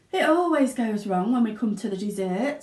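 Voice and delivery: rueful sigh. Acted. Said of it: "sighed Mister Wonka".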